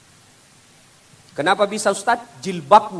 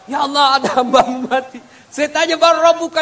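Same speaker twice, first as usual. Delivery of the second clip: high, loud urgent report; angel reporting up; 8 semitones higher, 6 dB louder than usual. Acted. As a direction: call it up to heaven with urgency. Angel reports to God again. (malaikat melapor dengan suara tinggi dan lantang)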